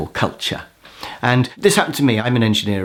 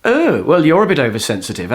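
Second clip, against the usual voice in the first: mock-huffy retort; 2 semitones higher than usual. Voicing the game player's imagined retort.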